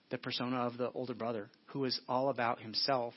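ordinary talk, nothing marked

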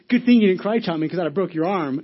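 loud comic comeback; imitated retort. Friend's retort acted out.

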